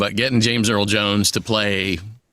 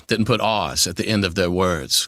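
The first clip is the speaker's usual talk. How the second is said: Southern non-rhotic accent, "words" with no R; old Virginia accent. Shown as a demonstration. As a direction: drop the R's in "R's" and "words", 1800s Virginia style. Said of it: "eighteen hundreds Virginia didn't put R's".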